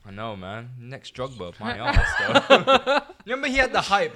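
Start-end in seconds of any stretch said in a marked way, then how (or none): 1.6-4.2 laughing while scoffing. Real, not acted. Scoffing at overhyped striker.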